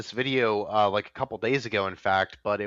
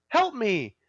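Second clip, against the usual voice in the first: eerie plea; 9 semitones higher than usual. Retold or imitated. Creature in the cave pleads, high and eerie. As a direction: plead like a lure from the dark.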